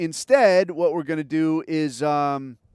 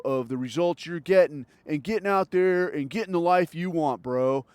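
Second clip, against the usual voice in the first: mock lecturing bro; 4 semitones lower than usual. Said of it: "is this shit of, like".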